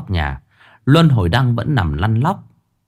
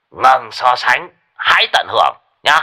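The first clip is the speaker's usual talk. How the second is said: firm repeat; 2 semitones higher than usual. Acted. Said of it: "Bố nhắc lại lần cuối".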